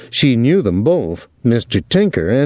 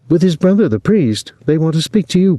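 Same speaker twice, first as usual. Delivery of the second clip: excited; 8 semitones higher than usual. Acted. Gretchen reports urgently.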